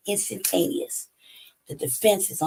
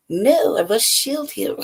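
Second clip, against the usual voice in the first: mock protective; 4 semitones higher, 4 dB louder, slower than usual. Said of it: "because I feel like".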